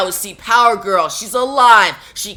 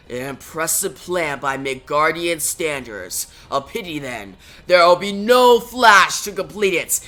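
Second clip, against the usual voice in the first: menacing giant voice; 2 semitones lower than usual. Acted. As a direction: speak like an ancient fire giant sizing up prey. Surtur's low voice.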